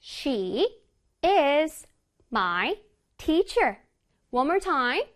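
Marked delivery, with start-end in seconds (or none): 0.0-3.8 "She is my teacher" word by word, with pauses; slow, melodic "She is my teacher"; piano-like intonation. Shown as a demonstration. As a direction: play each word of "She is my teacher" as a separate note. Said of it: "피아노 악기 연주하고 있지요".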